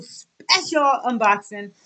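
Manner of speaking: "special" drawn out and punched; emphatic special. Real, not acted. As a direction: lean long and hard on "special".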